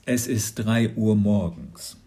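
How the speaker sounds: slow, sleepy father's complaint; yawning. A narrator's reading. Father woken at night to officers, yawning complaint. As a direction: drag it out through tiredness. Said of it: "Papa gähnte".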